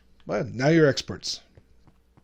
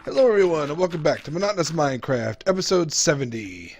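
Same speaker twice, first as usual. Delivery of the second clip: YouTube intro; 2 semitones higher than usual. Acted. Clip montage of episode intros.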